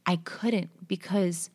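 slow, whispered, fighting tears; words catching in the throat; choked up. Real, not acted. Recalling grandma's death, choked whisper. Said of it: "I'm getting emotional".

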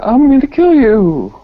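unconvincing threat. Pretend. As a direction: try to sound menacing and miss. Improvising a Craigslist killer's threat.

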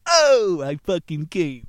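loud, high climactic cry; loud ecstatic outburst; ecstatic shout. Acted. Casanova punchline climax.

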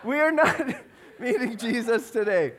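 loud, emphatic parental refusal; laying down the law through laughter; imitated firm dad. Dad forbidding his daughter, laughter.

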